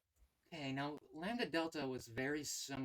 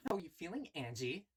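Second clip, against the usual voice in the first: tsundere voice; 4 semitones higher than usual. Acted. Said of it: "Could I do a tsundere voice?".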